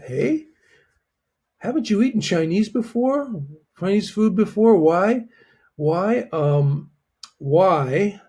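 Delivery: confused surprise. Shown as a demonstration. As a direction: sound baffled that they never tried it. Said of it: "It's kind of like confusion".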